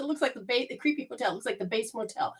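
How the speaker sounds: very soft, almost under the breath; hushed aside. Retold or imitated. Lost caller describing creepy hotel to operator, hushed. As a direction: drop right down for a confidential admission.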